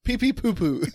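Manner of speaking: put-on goofy childish mangling of the name; silly kid-talk mockery. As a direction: mess up the name on purpose, playfully. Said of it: "you're messing it up".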